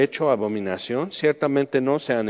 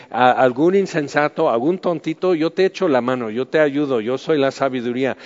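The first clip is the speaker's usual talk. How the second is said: Wisdom calling out; 3 semitones higher, 3 dB louder than usual. Acted. Wisdom at the city corners inviting fools in, pleading. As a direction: call to passers-by as eager Wisdom. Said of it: "la sabiduría se para en las esquinas ... y dice".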